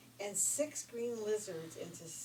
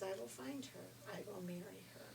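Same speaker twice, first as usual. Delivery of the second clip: quiet determination; 7 dB quieter than usual. Acted. Prince vows softly.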